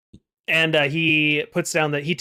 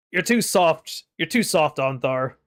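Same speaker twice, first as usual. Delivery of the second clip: snorting giant. Acted. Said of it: "Bronson just kinda snorts and says".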